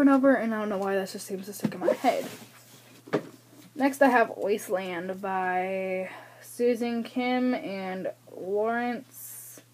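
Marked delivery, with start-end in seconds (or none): 4.4-9.6 dramatic reading voice. Shown as a demonstration. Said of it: "I was reading that in the blah, blah, blah, blah reflection".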